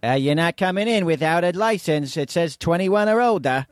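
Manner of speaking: hint of a Boston accent. Shown as a demonstration. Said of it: "Do a Boston accent".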